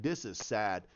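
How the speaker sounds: soft, low lament; mild sad. Retold or imitated. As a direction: sigh it out. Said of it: "I'm like".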